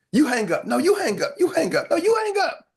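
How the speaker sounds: playful back-and-forth, ending in a high squeal; mock lovers' sign-off. Lovers refusing to hang up first, mock cutesy.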